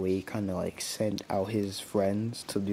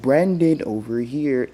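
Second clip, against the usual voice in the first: raised call, dropping off after the name; imitated yell; 3 semitones higher, 6 dB louder than usual. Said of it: "Logan yells at him".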